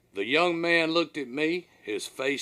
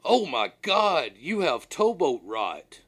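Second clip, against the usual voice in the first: feigned alarm; 4 dB louder, slower than usual. Retold or imitated. Captain to worried deckhand, faking horrified shock. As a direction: act horrified by the rash, drawing it out. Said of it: "my eyes got wide and I said".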